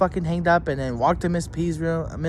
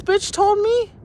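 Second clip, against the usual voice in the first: screaming; 12 semitones higher than usual. Real, not acted. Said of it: "for screaming".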